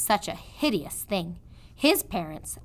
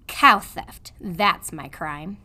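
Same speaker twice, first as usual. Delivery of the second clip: gruff prisoner; 2 semitones lower, 5 dB louder, slower than usual. Acted. Prisoner confesses.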